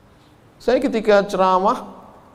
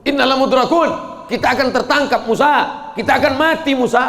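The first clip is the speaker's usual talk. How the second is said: panicked Israelites; 8 semitones higher than usual. Acted. Bani Israel crying in panic to Musa. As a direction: cry out in terror to Musa. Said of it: "Apa kata Bani Israel?".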